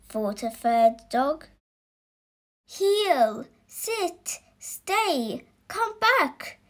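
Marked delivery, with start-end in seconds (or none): 2.6-6.6 higher-pitched commands called out; shouted commands. Acted. Dog owners ordering their dogs, first shouted commands. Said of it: "shouted the dog's people".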